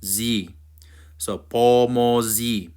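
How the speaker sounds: "pomozi" slowly, ending in zyih; corrected z sound. Shown as a demonstration. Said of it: "Sorry, my fault".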